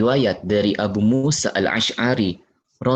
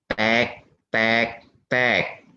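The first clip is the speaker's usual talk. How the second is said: knocking sounds; much slower than usual. Shown as a demonstration. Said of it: "tangannya bergerak lagi".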